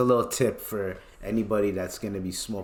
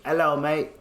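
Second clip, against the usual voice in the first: mock British greeting, slightly higher; British accent; 4 semitones higher than usual. Friend messing with people, mock British accent. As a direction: put on a light British accent. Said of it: "Talking British accent".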